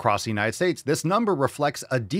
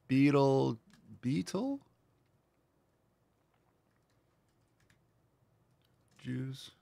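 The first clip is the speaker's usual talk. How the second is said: summoning Beetlejuice; 2 semitones higher, 7 dB quieter, much slower than usual. Pretend. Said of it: "All right, Beetlejuice".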